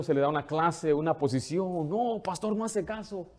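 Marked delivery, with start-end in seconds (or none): 1.9-3.3 higher and softer, whining voice; mock whiny complaint. A church leader whining to the pastor, higher and soft. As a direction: complain like a fussy new leader. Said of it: "algunos ya que tienen liderazgo".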